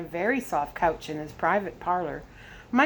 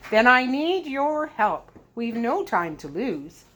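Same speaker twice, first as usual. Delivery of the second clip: urgent; 5 semitones higher, 4 dB louder, slower than usual. Acted. Desperate father pleading urgently.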